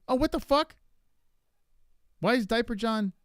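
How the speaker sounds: high, loud disbelieving cry; shocked outburst. Real, not acted. Streamer shocked at a quiz answer, high disbelieving outburst. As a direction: blurt it out in real shock.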